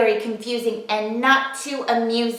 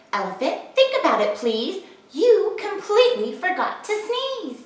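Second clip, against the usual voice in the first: laughing mouse; 6 semitones higher than usual. Acted. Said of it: "The mouse laughed".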